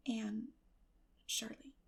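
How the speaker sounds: soft, hesitant mumble; reluctant falter. Acted. Girl admitting her real name, reluctant falter. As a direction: let the name falter out unwillingly. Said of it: "reluctantly faltered forth".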